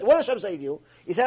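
usual speaking voice

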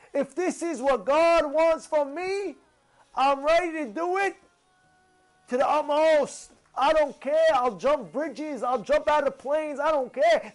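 acted-out zeal, all in; eagerly devoted. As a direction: declare total commitment with rising excitement. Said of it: "That means he was excited".

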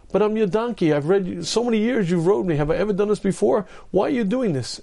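high, plaintive donkey voice; the loyal donkey, hurt and baffled; hammed-up pleading donkey; talking donkey. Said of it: "donkey answers again".

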